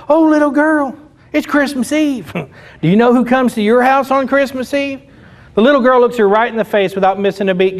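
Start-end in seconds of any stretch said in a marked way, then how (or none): 0.1-5.0 put-on cheering up child. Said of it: "she's like".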